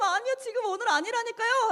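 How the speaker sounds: high, exasperated insistence; irritated protest. Retold or imitated. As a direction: snap back at the pastor, fed up. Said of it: "너무 짜증이 나는데". (짜증 난 높은 반박)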